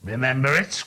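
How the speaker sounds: put-on old miser crying out with fervour; fervent cry. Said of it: "cried Scrooge with fervour".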